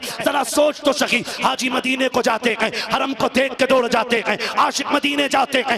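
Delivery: loud, high, rising sermon delivery with hammered peaks; full-force preaching. Acted. Preacher to the gathering, telling the boy's last moments: impassioned preaching.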